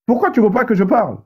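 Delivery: imitating his own gentle complaint to the host; gentle, joking. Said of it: "Et je parlais vraiment gentil".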